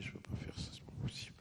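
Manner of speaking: hushed despairing whisper to yourself; voiceless private despair. Retold or imitated. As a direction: breathe it out, beaten and scared. Despairing thought at home.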